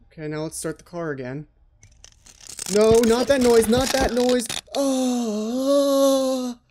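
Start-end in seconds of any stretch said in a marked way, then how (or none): 2.7-6.6 loud, high yelling at the screen; frantic shout of no, pitched up; panicked yell. Real, not acted. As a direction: yell at the game to stop. Yelling at the game.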